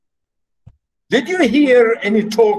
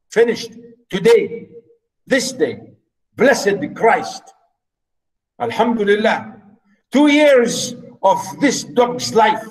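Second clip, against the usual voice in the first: angry steward; 3 semitones higher than usual. Acted. Teacher acting the angry steward.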